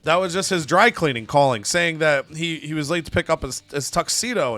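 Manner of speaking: panicked denial. Retold or imitated. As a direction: caught out, scramble to cover it up. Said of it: "looks around in a panic".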